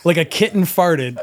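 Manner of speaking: barely holding it together; giggling while telling the gross story; laughing. Real, not acted. Laughing through the fart story.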